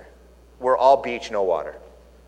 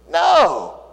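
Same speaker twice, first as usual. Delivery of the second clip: high, loud startled no; horrified refusal; 12 semitones higher, 4 dB louder than usual. Retold or imitated. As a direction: yell it like sailors aghast. Sailors refusing Jonah's request.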